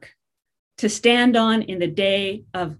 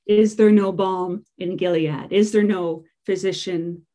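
scripture reading; 3 dB louder than usual. Acted. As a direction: let the sorrow of the prophet weigh on every line. Reads lament from Jeremiah.

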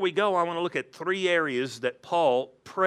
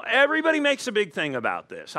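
quick, higher-pitched mock indignation; indignant driver; 5 semitones higher, faster than usual. Pastor mimics driver dismissing engine light, mock indignant. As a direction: complain like a driver brushing off a warning.

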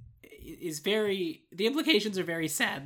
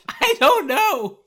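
high, slow laughing; giggling through the words; 10 semitones higher, 12 dB louder, much slower than usual. Real, not acted. Laughing at own voice.

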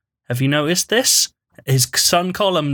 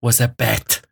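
lightly done German-tinged Herzog reading, grave and deliberate; Werner Herzog voice. Acted. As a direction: read the column like a brooding German documentary narrator. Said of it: "because Werner Herzog's saying them".

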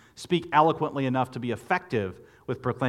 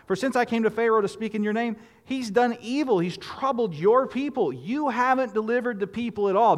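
higher pleading reproach to God; frustrated complaint; 9 semitones higher than usual. Retold or imitated. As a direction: press God for his broken promise. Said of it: "Verse twenty-three of chapter five".

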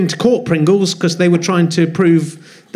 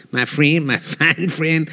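put-on slow, lower Southern Baptist preacher accent; 4 semitones lower, 4 dB quieter, slower than usual. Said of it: "saying it in a Southern Baptist preacher accent".

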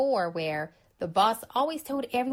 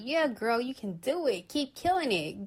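put-on higher, upbeat hype-girl encouragement; cheering a friend on; 4 semitones higher than usual. Friend cheering on a girlfriend, upbeat encouragement. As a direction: pump up a girlfriend, playful and bright.

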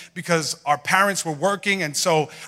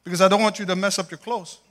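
mom's voice; 6 semitones higher than usual. Retold or imitated. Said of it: "And she goes".

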